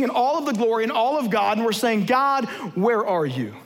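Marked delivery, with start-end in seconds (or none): 2.1-3.5 pained plea. Acted. Plea to God.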